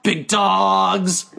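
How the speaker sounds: a hint of a bro voice; lightly tossed meathead catchphrase; big dog voice. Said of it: "the big dog voice".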